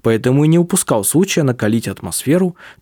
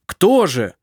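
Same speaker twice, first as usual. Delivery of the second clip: near shout; 5 semitones higher than usual. A narrator's reading. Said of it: "почти крикнул он".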